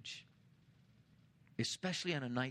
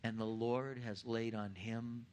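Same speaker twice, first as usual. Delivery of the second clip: slow, solemn reading of scripture. Acted. Pastor to congregation reading Isaiah fifty-three, slow and solemn. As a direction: read it out deliberately, weighing each phrase.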